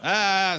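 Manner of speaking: short, high imitated scream; mock scream. Car owner screaming at a CD thief, mock scream. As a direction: act out a man charging out yelling. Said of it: "some guy comes screaming out".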